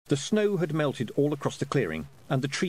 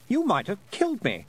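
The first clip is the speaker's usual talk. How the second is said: hoarse; 10 semitones higher than usual. A narrator's reading. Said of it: "he said hoarsely".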